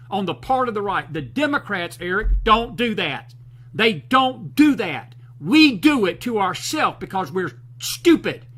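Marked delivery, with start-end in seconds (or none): 2.0-8.4 fired up. Real, not acted. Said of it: "Excuse me for getting fired up".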